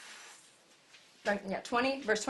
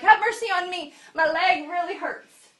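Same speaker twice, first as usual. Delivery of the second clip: much louder and higher mock whine; mock plea; 7 semitones higher, 7 dB louder than usual. Imagined man begging about his leg, mock plea. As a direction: whine it big and silly. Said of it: "What if that man had been like".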